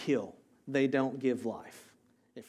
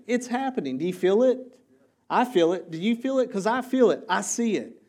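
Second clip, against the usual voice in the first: higher and louder, rising fervor; excited rallying; 6 semitones higher, 6 dB louder than usual. Real, not acted. Pastor rousing his congregation about the church, excited and loud. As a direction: stir the crowd up.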